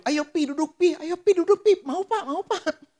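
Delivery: high, loud, eager urging; eager wife. Retold or imitated. Wife urging her husband to sit for prayer, eager high voice. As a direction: coax him to sit, all eagerness.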